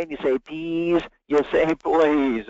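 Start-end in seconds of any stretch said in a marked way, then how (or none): 0.4-1.0 lightly voiced small child, "Please" without the L; a hint of baby talk on "Please"; toddler's please. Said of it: "You learn it when you're one years old". 1.7-2.5 drawn-out "Please" with the L sounded; lightly voiced small child stretching "Please"; child's please. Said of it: "You learn it when you're one years old".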